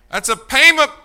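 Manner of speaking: high, loud, slow sing-song reply; mock sweet wife. Wife teasing husband about the payment book, high mock sweet voice. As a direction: answer sweetly but pointedly. Spouse answering about bill.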